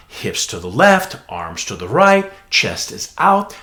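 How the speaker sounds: slow clipped cue voice; teacher voice. Shown as a demonstration. Teacher mimicking the repetitive cue voice, slow and clipped. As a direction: bark the cues slowly. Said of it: "That's a repeated pattern".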